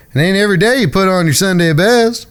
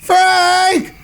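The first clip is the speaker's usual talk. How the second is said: high, gleeful teasing, calling across the yard; mocking sing-song announcement to the whole ranch; 9 semitones higher, much slower than usual. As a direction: rub it in and shout for Frank to come. Teasing brother, calling Frank over.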